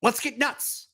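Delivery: Michael Keaton impression. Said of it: "Michael Keaton in, Batman nineteen eighty-nine".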